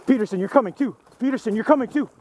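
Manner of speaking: shouting over gunfire. Real, not acted. Squad calls teammate mid firefight.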